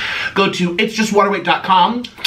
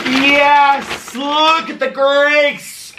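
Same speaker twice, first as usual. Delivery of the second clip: delighted; 10 semitones higher, much slower than usual. Real, not acted. Food arrives, delighted.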